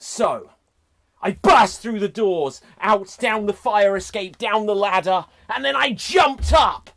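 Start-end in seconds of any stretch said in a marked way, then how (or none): 1.2-6.9 excited. Acted. Frantic escape narration.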